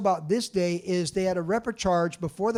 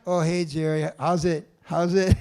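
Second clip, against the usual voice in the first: eager greeting; 5 dB louder than usual. Retold or imitated. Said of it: "I was like".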